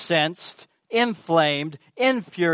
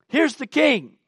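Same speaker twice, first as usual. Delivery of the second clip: higher, louder solemn proclamation; proclaiming the king; 8 semitones higher, 4 dB louder than usual. Retold or imitated. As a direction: declare it like a prophet. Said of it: "she's saying".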